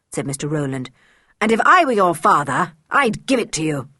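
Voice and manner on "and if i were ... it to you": a hint of a stern tutor, louder. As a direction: scold the girl coldly. Tutor scolding George.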